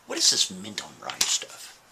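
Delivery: low, hushed puzzled question; quiet questioning. Acted. Man talking to a painting, low quiet puzzlement. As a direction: ask it under your breath, pitched low. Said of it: "He's talking to a painting".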